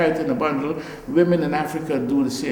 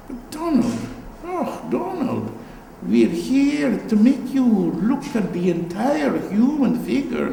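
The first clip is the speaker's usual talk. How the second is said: higher, a hint of the exasperated art teacher; pleading art teacher; 6 semitones higher than usual. Art teachers at Edinburgh pressing the student, a lightly voiced high plea. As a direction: coax the name Donald like a fond, despairing tutor. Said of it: "they would say".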